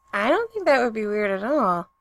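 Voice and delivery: tight, breathless voice, not his own; strangled, breathless. A narrator's reading. Vampire answering the kiss question, strangled and breathless. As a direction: squeeze the words out, flustered. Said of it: "in an oddly strangled, breathless voice".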